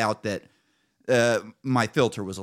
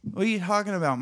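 incredulous; 9 semitones higher, faster than usual. Retold or imitated. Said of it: "I go".

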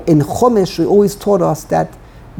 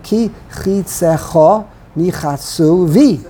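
slow, stressing the last syllables of chitzecha and Nichasu; end-stressed reading; slower than usual. Shown as a demonstration. Teacher showing how you would say it, slow end stress on chitzecha and Nichasu. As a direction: spell out "chitzecha Nichasu" with weight on each word's end. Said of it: "you would say ki chitzecha".

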